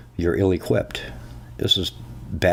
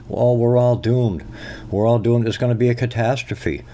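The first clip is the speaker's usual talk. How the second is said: mock doom; 4 semitones higher than usual. Mocking doom answer.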